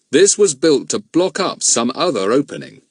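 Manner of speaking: a lightly voiced grown man, grave; steady adult man puzzling it out; a hint of a serious man; Bill's voice. Bill speaking.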